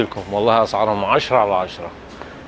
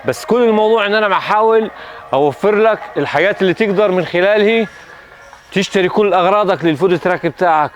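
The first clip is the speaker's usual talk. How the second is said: excited; 6 semitones higher than usual. Real, not acted. Excited pitch, raised throughout.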